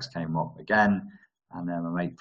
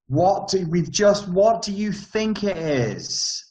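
much higher, hammed-up angry yell; imitating a shouting man; 13 semitones higher, 5 dB louder, much slower than usual. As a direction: mimic a dramatic dad losing it. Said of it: "he was shouting at him".

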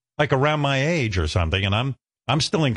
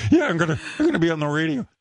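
laughing boast; 6 semitones higher, faster than usual. Retold or imitated. Retold youthful boast.

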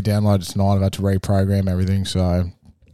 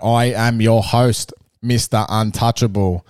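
grand entrance announcement. Acted. Host introduces co-host.

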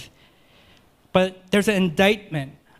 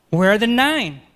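louder, pressing question; emphatic question; 2 semitones higher, 5 dB louder than usual. Acted. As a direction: push it out. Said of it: "it's all the more emphatic".

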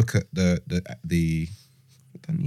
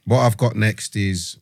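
geezer voice. Pretend. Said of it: "the kind of geezer voice".

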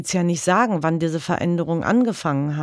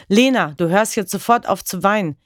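mock shout; 3 semitones higher, 3 dB louder than usual. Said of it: "schrie Frank die Kleine an".

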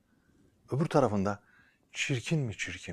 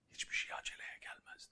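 whispering; 15 dB quieter than usual. Acted. Secret advice told close.

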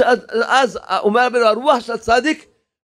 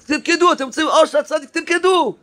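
mock yell to a crowd, pitched up; retold yell; 6 semitones higher than usual. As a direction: re-enact an insistent call to dance. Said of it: "הוא צועק להם".

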